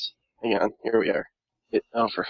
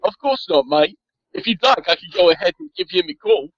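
put-on Australian accent; 2 semitones higher than usual. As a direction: offer help in a wobbly Australian accent. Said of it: "You're Australia now?".

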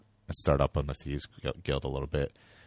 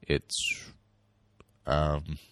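choking. Real, not acted. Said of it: "choking here".

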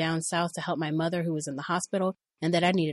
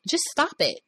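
higher pleading yell; 9 semitones higher than usual. Retold or imitated. Woman yelling at groping boss, higher. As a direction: yell it again, high. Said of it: "I yelled".

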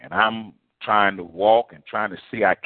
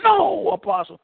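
imitated holler; 12 semitones higher, 4 dB louder than usual. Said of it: "They were hollering".

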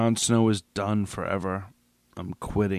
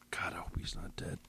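fast unvoiced whisper; whispered hope; 2 semitones lower, 13 dB quieter, faster than usual. Real, not acted. Podcaster whispering his hope for Jon Snow. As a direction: whisper it like a prayer.

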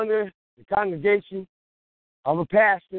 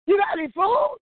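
high pleading ask; 10 semitones higher than usual. Acted. Begging a former enemy for food.

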